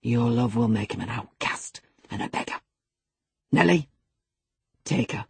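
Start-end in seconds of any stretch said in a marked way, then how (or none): 0.0-2.6 low, controlled menace; forced calm over simmering anger; assumed calmness. A narrator's reading. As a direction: keep the threat low and measured. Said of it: "said with assumed calmness".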